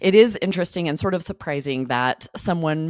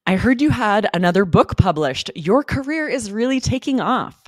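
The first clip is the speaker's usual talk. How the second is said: higher, bright partygoer congratulating a friend; cheery party guest; 5 semitones higher, 3 dB louder than usual. Acted. A guest congratulating a writer at a party, pitched up and cheery. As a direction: sound delighted for her, pitched up. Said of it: "a role play".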